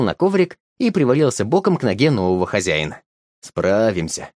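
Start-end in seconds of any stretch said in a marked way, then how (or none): 3.4-4.3 murmured to himself, lower; consoling himself. Acted. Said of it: "утешил себя дед".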